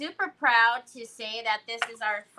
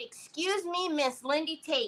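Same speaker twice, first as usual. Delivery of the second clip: restrained scolding with put-on yelling; 5 semitones higher, 6 dB quieter than usual. Retelling having to scold someone again, imitating her own yelling. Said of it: "I was having to yell at her".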